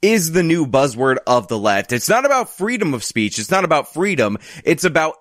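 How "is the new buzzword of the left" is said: ringmaster. Pretend. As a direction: announce it like a big-top showman. Mock circus announcer opening.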